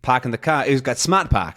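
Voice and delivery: imitated Boston accent from an ad. Quoting a remembered car ad, mock Boston accent. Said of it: "the thing is, like".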